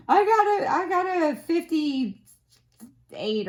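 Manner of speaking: high, loud, slow whiny voice; imitating a classmate. Classmate telling the professor her grade, whiny and slow. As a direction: drag it out like a sulky student.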